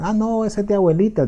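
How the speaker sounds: high, scornful voice imitating young people; mock teen scorn at an old perfume. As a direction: sneer it like a teen dismissing grandma's perfume. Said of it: "Decían".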